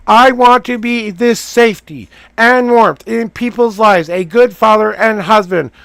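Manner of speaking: loud, firm reading of his own words. Real, not acted. Man reading his own written wish aloud, loud and firm. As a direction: read it out boldly, like a declaration. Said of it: "Read it out loud to yourself".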